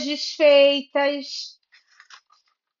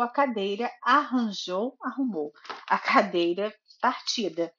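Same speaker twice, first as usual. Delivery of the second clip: storybook narration with lively character lines; reading to a child. A narrator's reading. Mother reading Goldilocks to her little daughter, storybook narration. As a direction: read it like a bedtime story for a toddler.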